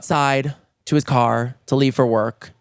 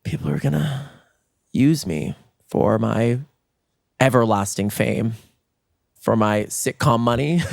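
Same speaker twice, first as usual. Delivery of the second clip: mock self-important; 4 semitones lower than usual. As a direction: savour your own imagined fame. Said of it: "because I think to myself".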